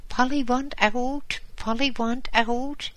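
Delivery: very high, loud squawking parrot. Acted. Parrot demanding out of the cage, loud high squawk. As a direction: screech it like an impatient bird. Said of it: "squawked the parrot again".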